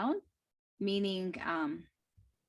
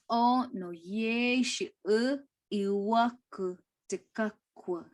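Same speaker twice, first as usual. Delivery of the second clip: slow, deliberate "O no ye shi u iwaku te kakua"; slower repeat. Shown as a demonstration. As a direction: repeat it slowly, word by word. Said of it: "repeated slower".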